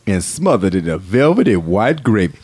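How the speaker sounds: low ad announcer; lightly voiced commercial read. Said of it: "announcer voice is this".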